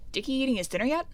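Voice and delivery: lightly voiced small-town gossip; a hint of fretting parent; worried townsfolk. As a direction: fret over the boy, mildly. Voices worried townsfolk about a boy.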